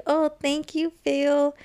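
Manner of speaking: a lightly voiced Gloria with a Colombian accent. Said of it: "because of her accent".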